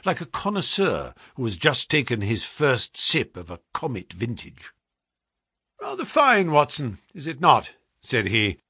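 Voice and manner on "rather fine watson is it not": higher, relishing lilt; lightly voiced pleased detective. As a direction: savour it like a connoisseur, pitched up. Holmes speaks in the story.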